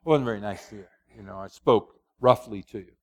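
low, contrite husband saying sorry; apologizing to wife. Pretend. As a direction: own up gently, voice dropping. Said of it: "if I say to Becky".

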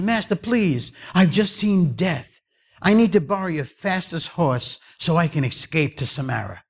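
acted anxious servant; frightened pleading. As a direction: beg the master for a way out. Servant fleeing Death begs master.

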